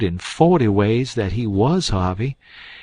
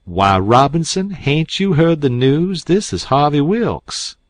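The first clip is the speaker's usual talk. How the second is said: higher, louder, slowed on the question; indignant surprise; 6 semitones higher, 5 dB louder than usual. A narrator's reading. Abner Shackelford reproaching the doctor, indignant. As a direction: scold him in disbelief.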